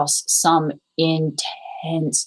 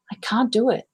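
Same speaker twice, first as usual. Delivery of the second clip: the inner critic voice; 3 semitones higher than usual. Retold or imitated. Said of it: "and I heard".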